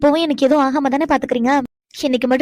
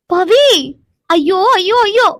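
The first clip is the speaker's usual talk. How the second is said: flustered wail; 3 semitones higher, 4 dB louder, much slower than usual. Acted. Wife panics alone over embarrassment.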